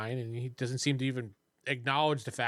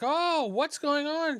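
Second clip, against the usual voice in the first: high, drawn-out questioning voice; high and slow, puzzled outcry; startled woman; 11 semitones higher, much slower than usual. Acted. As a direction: play a woman walking in alarmed. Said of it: "and she's like".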